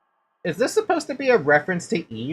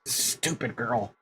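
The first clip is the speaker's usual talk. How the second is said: very soft, slow, nearly gone; last breath; 5 semitones lower, 11 dB quieter, slower than usual. Acted. Dying mother's last words to her daughter, barely audible. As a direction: let the words die away.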